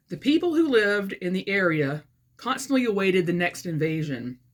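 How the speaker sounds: measured read-aloud with phrase-by-phrase pauses; story narration. A narrator's reading. Author reading her satirical novel to viewers, measured narration. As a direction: read it out carefully as book prose. Reads aloud from own book.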